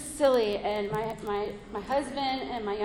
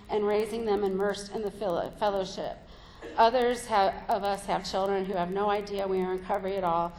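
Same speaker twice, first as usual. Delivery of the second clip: steady reading of a passage; reading aloud. Acted. Speaker reading the meeting literature aloud, steady. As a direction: read the text evenly to the group.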